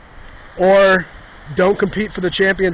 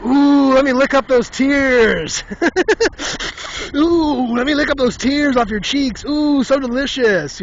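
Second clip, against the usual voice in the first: higher, slow mock savoring croon; gloating rival fan; 6 semitones higher, slower than usual. Rival fans taunting crying Notre Dame, slow gloating croon. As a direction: lick your lips over their misery, mockingly.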